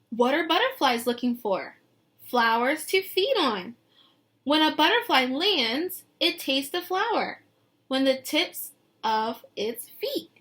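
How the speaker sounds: lilting picture-book read; reading to children. Acted. Teacher reading the book text to her class, lilting. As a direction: paint the scene for the kids.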